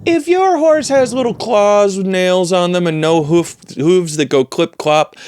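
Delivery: high, strained incredulous voice; indignant rant. Acted. Tenant arguing that the landlord's horse is a rat, indignant.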